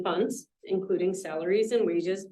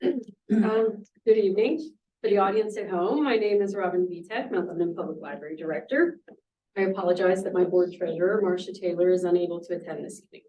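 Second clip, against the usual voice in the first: voice hoarse from a cold. Real, not acted. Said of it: "excuse my voice, I'm getting over a bad cold".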